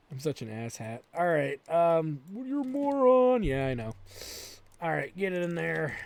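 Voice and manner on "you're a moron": high, slow taunting put-on voice; mock heckler. Streamer voicing an imagined heckler at himself, high mock taunt. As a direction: taunt like a mocking chat viewer.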